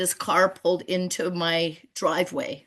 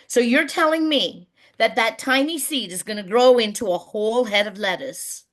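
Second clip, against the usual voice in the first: put-on higher-pitched, incredulous child's question; amazed little girl; 3 semitones higher than usual. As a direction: voice a little girl's wonder, lightly imitated. Little girl amazed by tiny seed.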